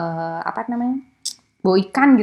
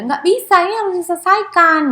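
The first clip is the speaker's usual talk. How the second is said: higher, louder insistence; firm confrontational demand; 10 semitones higher, 7 dB louder than usual. Retold or imitated. Lecturer voices someone from a confrontational culture, firm and loud. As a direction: insist the conflict be settled now. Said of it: "Tapi ada yang dari budaya".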